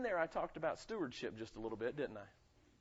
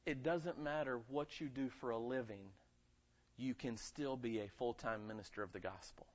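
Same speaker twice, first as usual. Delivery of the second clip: quiet and low, laying the point down gently; softly spoken; 3 semitones lower, 6 dB quieter than usual. Shown as a demonstration. Pastor quietly telling the congregation, soft and low. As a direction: say it softly first. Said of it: "I don't care if you're a janitor".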